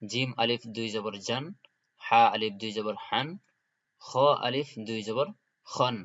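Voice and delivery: each letter spelled with a rise, then the tanween syllable; teacher recitation drill. Shown as a demonstration. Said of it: "আমি আবারও বলে দিচ্ছি".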